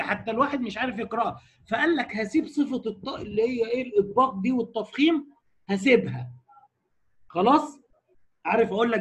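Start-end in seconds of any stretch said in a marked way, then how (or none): none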